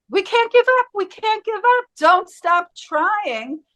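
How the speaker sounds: high-pitched frantic plea, not shouted; screaming, crying dentist. Retold or imitated. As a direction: imitate a panicked man begging them to continue. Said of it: "He was screaming, crying".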